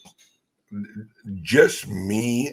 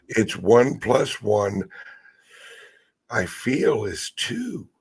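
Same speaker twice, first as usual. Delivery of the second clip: mock hedging. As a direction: slip in a timid I feel and trail up. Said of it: "Nobody wants to say".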